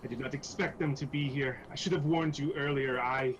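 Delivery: agitated apology, settling toward the end; acted remorse with halting restarts; flustered guilt. Iku promises the money back, flustered with guilt. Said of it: "she seems absolutely just flustered".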